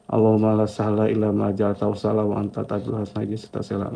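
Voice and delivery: level, unbroken run of memorised prayer; prayer recitation. Retold or imitated. Speaker shares the doa he adds in his heart, prayer recitation. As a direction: recite the Arabic supplication evenly. Reciting a silent supplication aloud.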